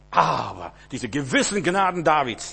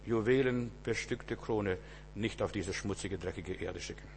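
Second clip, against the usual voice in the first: softer, lower, close to the listener; hushed intimate preaching; 3 semitones lower, 6 dB quieter than usual. Acted. Preacher to congregation, hushed intimate sermon. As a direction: draw them in quietly.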